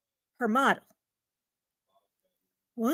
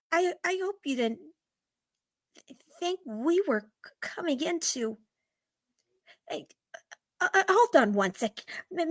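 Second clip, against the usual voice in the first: flustered woman; 7 dB quieter than usual. Acted. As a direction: stumble over words, embarrassed. Flustered woman stammers quietly.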